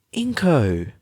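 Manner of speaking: high, loud cry of a name; cried out. A narrator's reading. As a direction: call out to her friend in distress. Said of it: "she cried".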